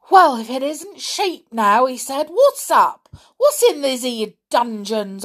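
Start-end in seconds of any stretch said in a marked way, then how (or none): 0.1-1.9 high, loud startled exclamation; alarmed amazement. A narrator's reading. Mister Stick hears sheep underground, alarmed amazement. 2.3-5.2 alarmed. A narrator's reading. Mister Stick alarmed by bleating.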